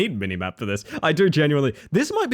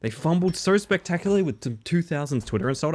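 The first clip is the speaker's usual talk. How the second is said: ordinary delivery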